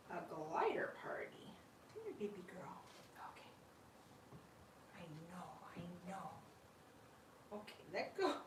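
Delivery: soft voiceless whisper, the last words fast. Real, not acted. Owner whispering to her glider as she picks her up. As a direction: coax the little one gently.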